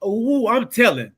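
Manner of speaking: mock tattletale auntie; tattling auntie. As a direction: sing out the threat. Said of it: "Auntie said".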